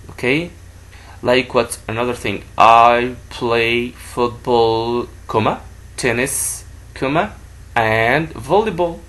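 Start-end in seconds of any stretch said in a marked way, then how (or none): 2.6-9.0 slow dictation. Shown as a demonstration. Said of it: "if you write it".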